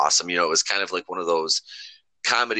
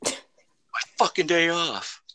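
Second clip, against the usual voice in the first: Clerks quote; 5 semitones higher, 4 dB quieter, slower than usual. Retold or imitated. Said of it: "I'm not even supposed to be here today".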